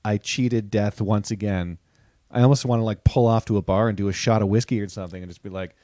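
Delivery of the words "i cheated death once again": slow, lowered, mock-solemn survivor line; hammed-up relief after the freeway; mock dramatic relief. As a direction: savour it like you escaped death. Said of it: "I'm like".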